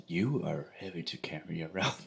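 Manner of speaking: under his breath. Acted. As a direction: whisper it so they barely hear. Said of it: "says under his breath".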